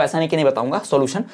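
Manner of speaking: ordinary delivery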